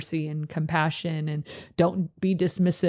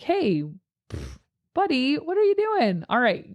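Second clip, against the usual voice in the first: positive correction; 3 semitones higher, faster than usual. Shown as a demonstration. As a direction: gently call out a kid, keeping it upbeat. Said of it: "always lead with positivity".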